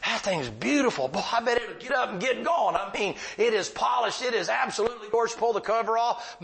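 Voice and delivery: excited sermon illustration; animated preaching. Real, not acted. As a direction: preach it up high with folksy acted asides.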